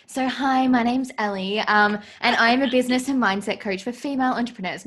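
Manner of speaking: upbeat broadcast intro read; news reporter voice. Pretend. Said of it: "my news reporter voice".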